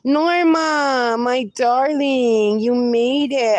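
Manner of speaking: bright, lifted welcome, stretched out; delighted greeting. Real, not acted. Host greeting Norma on the live stream, delighted.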